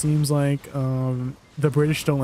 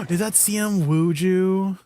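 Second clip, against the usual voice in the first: gasping surprise; 5 semitones higher, slower than usual. Real, not acted. Spots a surprise guest in chat.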